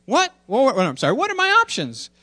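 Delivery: put-on very high, squeaky-kid questioning; excited little daughter. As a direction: burst out like an astonished child. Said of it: "I'll read the cartoon to you".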